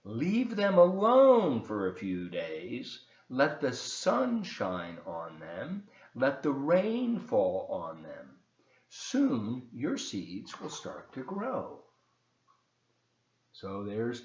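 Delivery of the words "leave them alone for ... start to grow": put-on slow, gentle read-aloud for children; story narration. A narrator's reading. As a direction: tell the story slowly to the kids. Reads Frog and Toad aloud.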